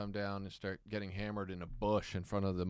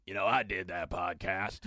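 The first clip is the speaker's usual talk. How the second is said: lower, lightly imitated southern comic; Ron White; 4 semitones lower than usual. Podcaster retelling a backstage chat, low southern-comic impression. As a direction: put on the older comic's voice, low. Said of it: "And Ron's like".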